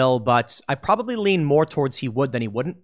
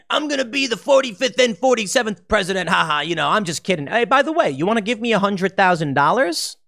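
Trump-style boast, higher, tossed off as a joke; mocking a candidate fishing for donations, higher; 4 semitones higher than usual. Host imitates Trump teasing donors, higher mock boast. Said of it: "He can come out and say".

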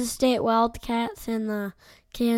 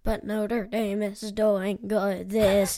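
zombie voice. Acted. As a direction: drag the words like a zombie. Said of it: "Is that your spooky voice?".

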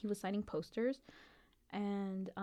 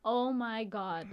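retold dismay; 2 semitones higher, 4 dB louder, much slower than usual. Retelling dismay at missing out.

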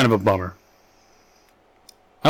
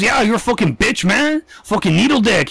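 mock gangster; 7 semitones higher than usual. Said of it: "He goes".

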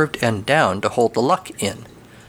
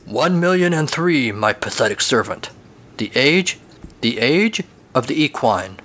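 grand pronouncement. Acted. Grand horse declares the era.

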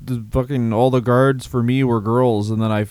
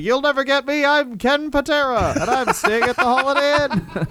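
Larry Zbyszko impression; 11 semitones higher than usual. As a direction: pitch it way up and drag it out like a goofy wrestler. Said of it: "can you do it in a Larry Zbyszko voice?".

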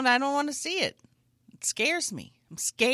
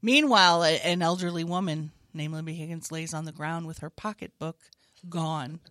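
mock police statement; 5 semitones lower than usual. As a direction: report it like a solemn spokesperson.

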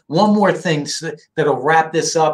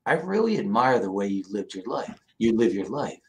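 low, soft fatherly confession; quiet sincerity; 9 semitones lower, 7 dB quieter than usual. Retold or imitated. Man's man father praising his son, quietly sincere. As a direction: imitate a reserved dad opening up, low and quiet. Retells dad's rare heartfelt praise.

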